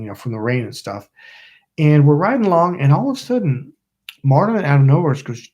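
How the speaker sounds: ordinary talk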